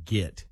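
"get" said as "git"; short i in "get", like "git"; habitual pronunciation "git". Shown as a demonstration. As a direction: say "get" with the vowel of "it". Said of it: "can't stop saying".

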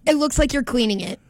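breathless after running; panting between words; out of breath. Real, not acted. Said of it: "Let me catch my breath".

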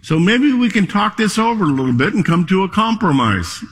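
a sly storybook bear cutting a deal; talking bear. A narrator's reading. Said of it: "Well, he said".

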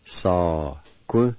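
"Sa-ku" in two separate, drawn-out syllables; syllable-by-syllable demo. Shown as a demonstration. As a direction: sound out "Sa-ku" piece by piece. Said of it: "First part is pronounced like this".

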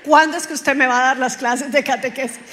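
voz fuerte, recreando un reclamo a gritos; grito callejero imitado. Retold or imitated. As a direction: repite el reclamo como gritado en la calle, a medias. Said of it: "que a mí me gritaran en la calle". (reclamo imitado en voz fuerte)

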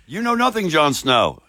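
a light, high-pitched nod to the famous line; lightly imitating the wildling woman; Jon Snow's wife quote. Co-host's remark prompts a playful quote of the show line. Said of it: "Sounds like Jon Snow's wife".

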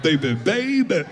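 slow, strained caricature voice; hammed-up throaty noise voice; mock throat noise. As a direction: drag the words out through a put-on choke. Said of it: "making all them noises".

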